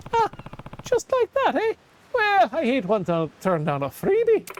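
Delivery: a hint of a gruff hero taking a gift; lightly voiced game hero. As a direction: play the hero, pleased with a freebie.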